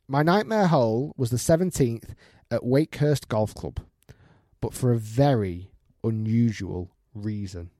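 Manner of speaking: measured storytelling from an email; story read-out. Acted. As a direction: read it aloud like a tale unfolding. Reads out a listener's email.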